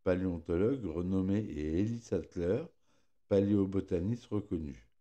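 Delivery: careful speech around a pierced tongue; articulating with a sore tongue; fresh tongue piercing. Real, not acted. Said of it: "je me suis fait percer la langue hier".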